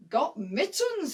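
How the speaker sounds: slow, puzzled reading aloud; confused. Acted. Johnny reading the German's belt aloud, confused. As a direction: sound out the odd words, baffled. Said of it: "he said, all confused".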